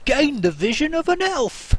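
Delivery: high, loud vendor's cry; market hawker. Acted. Somebody in the distance selling goggles, loud high hawker's call. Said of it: "somebody go".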